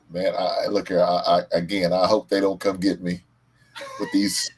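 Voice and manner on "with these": laughing squeal. Real, not acted. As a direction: squeal the words through a laugh. Laughing shout mid-sentence.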